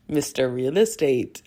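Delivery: faint hint of a Russian accent on "Mister Real Estate"; lightly sketch a Russian accent. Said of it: "my Russian accent is trash".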